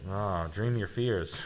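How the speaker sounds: laughing read-out. Shown as a demonstration. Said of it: "it'd be funnier if it just said".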